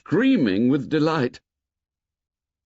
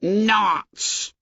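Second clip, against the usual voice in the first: shocked outburst; 11 semitones higher than usual. A narrator's reading. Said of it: "shocked out of decorum".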